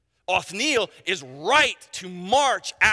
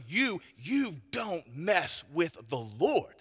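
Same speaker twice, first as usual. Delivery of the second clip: hushed warning; 2 semitones lower, 5 dB quieter, slower than usual. Acted. Preacher warning his flock in a hushed, slow voice. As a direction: lean in and drop the voice to warn.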